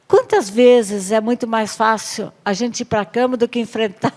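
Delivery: ordinary talk, nothing marked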